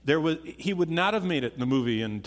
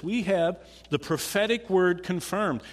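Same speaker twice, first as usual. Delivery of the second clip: higher and louder, driving each word home; emphatic preaching; 6 semitones higher, 5 dB louder than usual. Shown as a demonstration. Preacher repeating the verse to his congregation, emphatic and louder. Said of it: "That's what he says".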